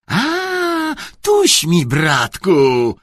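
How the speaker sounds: high, loud gotcha; triumphant catch. A narrator's reading. Headmaster finding a truant, loudly triumphant. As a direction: pounce with a rising exclamation.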